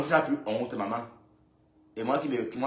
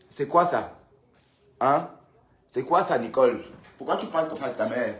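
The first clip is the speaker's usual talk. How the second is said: loud, indignant questioning; 5 dB louder than usual. Real, not acted. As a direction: demand an explanation, loudly. Scolding Nicole over her mother. (indigné et fort)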